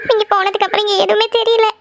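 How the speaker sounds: high voice broken by sobs; sobbing in fear. Acted. Wife telling husband she feels lost without him, sobbing. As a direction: explain tearfully between gasps. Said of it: "தேம்பி தேம்பி அழுதுட்டு இருக்க".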